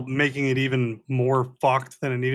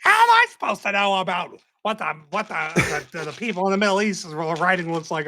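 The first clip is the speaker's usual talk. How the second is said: mock defensive protest; 3 semitones higher than usual. Mimicking a friend excusing his flag blunder, defensive. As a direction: sputter an indignant excuse, imitating him.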